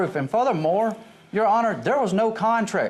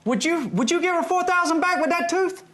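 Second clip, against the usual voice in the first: talking through a gap in the teeth; missing front teeth; 8 semitones higher than usual. Real, not acted. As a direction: speak with a front tooth missing. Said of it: "Your tooth fell out".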